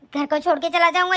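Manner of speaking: a lightly mocking echo of her son; sarcastic mother parroting her son's threat; mocking repeat. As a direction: throw his words back at him with scorn. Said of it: "कुछ ज्यादा कैसी जैसी जबान नहीं चल रही तेरी भी".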